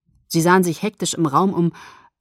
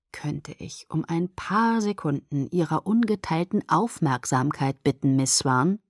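mock-formal request; 2 semitones lower, 3 dB quieter than usual. Jacob asks distracted Bella for her attention, mock-formal. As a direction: lean in with exaggerated politeness, half whispered.

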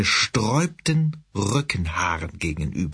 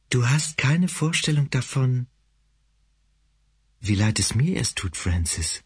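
deeply sad whisper. Acted. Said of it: "abgrundtief traurig flüstern".

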